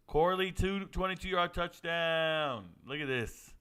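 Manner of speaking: ordinary talk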